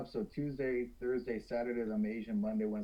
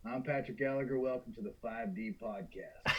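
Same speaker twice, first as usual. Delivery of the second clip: Southern accent; 2 semitones lower, 5 dB quieter than usual. Shown as a demonstration. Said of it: "I can do a Southern for you".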